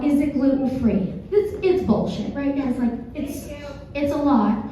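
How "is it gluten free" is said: quoted mom's call, only lightly acted; brisk, toned-down echo of a yell; mild retold yell. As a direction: retell the holler without shouting it. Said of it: "that mom that yelled out".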